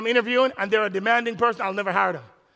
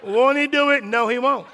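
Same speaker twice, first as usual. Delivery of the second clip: louder, laughing through it; laughing mock brag; 4 dB louder than usual. Pastor retells his brag and her reply, laughing. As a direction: gloat then get shot down. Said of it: "his brag and her answer".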